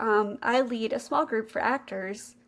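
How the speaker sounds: mildly perky, slightly lifted invitation; a touch of pep, retold; perky quote. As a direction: imitate a friendly girl introducing herself. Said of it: "like, very perky".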